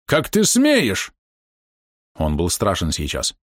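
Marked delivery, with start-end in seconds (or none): 0.0-1.1 furious slow cry; shouting. A narrator's reading. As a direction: drag out the outraged shout. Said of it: "кричал он".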